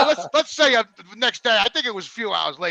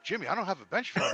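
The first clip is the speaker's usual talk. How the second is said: laughing quote; 3 semitones lower, 9 dB quieter, faster than usual. Retold or imitated. Quoting friend amid laughter.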